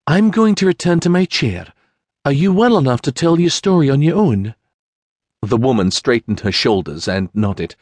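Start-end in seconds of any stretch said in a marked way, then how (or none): 0.1-4.5 higher, gentle noble voice; kind young lady. Acted. Sienna helps Mary stand, higher and gentle. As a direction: coax a frightened woman to her feet.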